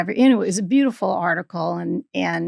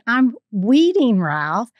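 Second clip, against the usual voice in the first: retold exasperated reply, slow and louder; not amused; 3 semitones higher, 5 dB louder, much slower than usual. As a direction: stress weeding high, then drop on the name. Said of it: "I wasn't in the mood for humor".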